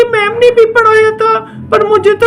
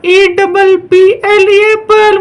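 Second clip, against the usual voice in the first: slow, loud letter-by-letter spelling; a student who suddenly remembers the spelling in an exam; triumphant spelling; 4 dB louder, slower than usual. Acted. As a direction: proudly spell each letter out slowly.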